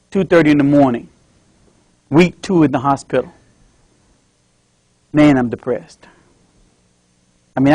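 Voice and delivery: a stroke patient alone at night; depressed old father. Acted. Dad's inner monologue.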